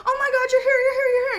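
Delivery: high, loud, near-crying dog voice; high yelping puppy greeting; frantic pet voice. Pretend. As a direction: squeal like a dog at the door.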